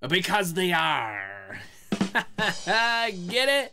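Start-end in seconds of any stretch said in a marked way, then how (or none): 0.1-1.6 pirate voice. Acted. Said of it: "It's my pirate voice".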